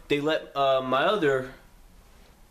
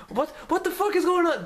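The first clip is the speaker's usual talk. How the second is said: high, strained cry of disbelief; outraged disbelief. Retold or imitated. Handcuffed teen protesting to police, high strained disbelief. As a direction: protest it as the cuffs go on.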